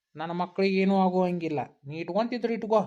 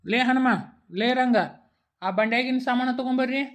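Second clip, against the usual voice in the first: calling out; 5 semitones higher than usual. Acted. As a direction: shout across the yard for the helpers. Landlord calls servants from afar.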